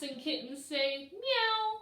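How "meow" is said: high, louder meow; kitten meow. Acted. Reader answering for the kittens, a high meow. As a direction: mew like a kitten.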